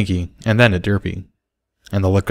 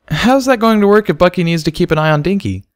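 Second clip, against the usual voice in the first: Barry's voice; 10 semitones higher than usual. A narrator's reading. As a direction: ask about the date, a bit awkward.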